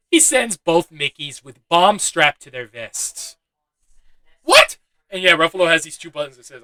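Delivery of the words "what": much higher, louder incredulous "What?"; real stunned outburst; disbelief. Real, not acted. Reacting to bomb vests.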